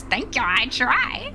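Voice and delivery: high, slow self-pleased voice; smug mock thanks. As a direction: thank them in a hammed-up high voice. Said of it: "Sick doll voice".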